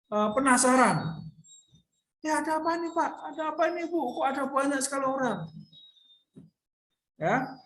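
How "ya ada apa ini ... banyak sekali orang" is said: curious question. Acted. Bartimeus asking the crowd.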